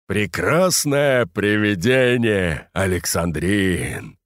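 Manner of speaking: slow, wistful sigh; slow dreamy sigh over the ghost. Acted. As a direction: breathe it out slowly, longing. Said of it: "вздохнул японец".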